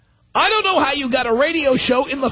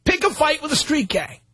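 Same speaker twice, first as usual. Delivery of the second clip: mock reading; 2 semitones higher, slower than usual. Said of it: "He says".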